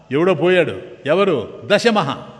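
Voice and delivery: ordinary talk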